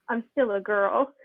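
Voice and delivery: mock crying. Hurt girl protesting to the man she confronts, mock crying. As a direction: drag it out as a hammed-up tearful protest. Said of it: "she starts crying".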